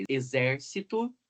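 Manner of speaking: Exército slowly, leaning on ZÉR; Exército, measured demo of its stressed syllable; stress on antepenultimate syllable. Shown as a demonstration. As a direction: mark the XÉR of Exército. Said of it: "o acento recai na antepenúltima sílaba".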